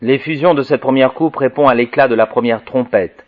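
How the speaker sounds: measured, declaimed reading voice; formal, projected recitation; reading aloud. Acted. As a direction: read the commentary out solemnly. Reads commentary text aloud.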